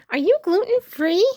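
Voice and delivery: pushy, in-your-face question; a space invader, crowding right up close; too close. A narrator's reading. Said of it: "Winton, not so close".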